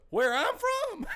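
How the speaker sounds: high shout. Retold or imitated. Comedian quoting a bit, high shout. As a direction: yell it up high for emphasis. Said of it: "He goes".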